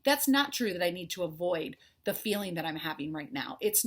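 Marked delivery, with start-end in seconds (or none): 0.0-1.8 high, sudden push-back; defiant inner voice. Retold or imitated. Inner wisdom talking back to fear, high and defiant. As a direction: answer your fear with a high, defiant retort. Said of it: "You're gonna go".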